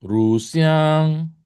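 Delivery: RU dipping, XIANG high and level; slow teacher demo of RU XIANG; model pronunciation. Shown as a demonstration. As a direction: hold XIANG high after RU. Teacher models tones for repetition.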